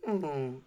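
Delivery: small high "mm" of a puppy; puppy-dog whimper. Retold or imitated. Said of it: "like a little puppy dog".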